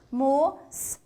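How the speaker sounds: "Moça" sounded out with separate s hisses. Shown as a demonstration. Teacher showing cedilla sounds like S, sounded out. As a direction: break "Moça" into "mo", hisses, then "sa". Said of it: "C cedilha tendo som de S".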